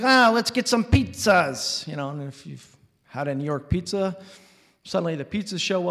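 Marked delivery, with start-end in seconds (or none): 0.0-1.9 loud, high holler, words stretched out; boisterous uncle bellowing a slow, big suggestion; yelling uncle. Retold or imitated. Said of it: "suddenly starts yelling and talking".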